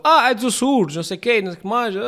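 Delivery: high, quick mock exclamation; rental clerk remark. The rental car clerk noticing he is Azorean, high quick mock. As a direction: recognise the accent with a grin. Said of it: "Ele disse-me logo".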